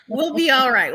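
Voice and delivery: laughing through the words. Real, not acted. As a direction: say it with a chuckle. Laughing at her own joke.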